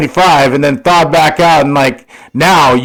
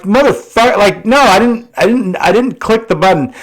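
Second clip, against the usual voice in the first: higher, annoyed mock protest; exasperated outburst; 6 semitones higher than usual. Cursing at his car's voice assistant, exasperated. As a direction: snap back at the nagging car voice. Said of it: "And I'm like".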